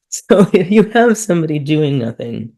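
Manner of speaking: chuckling through the phrase; amused, laughing. Real, not acted. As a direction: laugh as you start the sentence. Laughing at own remark.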